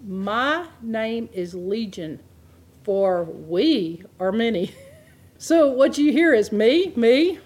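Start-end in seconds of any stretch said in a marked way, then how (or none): 0.0-4.7 slow, each word laid out, "my" and "many" weighted; slow deliberate reading. Shown as a demonstration. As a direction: read it slowly so they hear the pronouns. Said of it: "watch what the sentence does".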